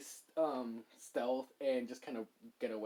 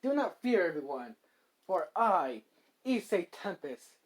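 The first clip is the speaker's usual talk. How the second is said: lightly grand speech to villagers; mildly hammed-up hero's address; heroic proclamation; 4 dB louder than usual. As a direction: announce yourself like a champion, firm and projected.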